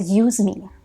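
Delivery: urging, insistent, a touch lifted; inner voice. Retold or imitated. The voice she heard from him urging her, lightly voiced. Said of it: "I heard a voice that said".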